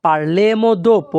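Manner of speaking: slow, even delivery; slow model phrase. Shown as a demonstration. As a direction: say it slowly for the class. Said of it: "তাহলে Italian ভাষা". (ধীরে উচ্চারণ)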